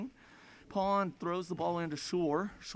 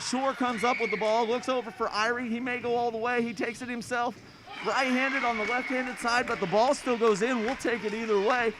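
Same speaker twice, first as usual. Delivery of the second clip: excited; 4 semitones higher, 4 dB louder than usual. Real, not acted. Fast break and score.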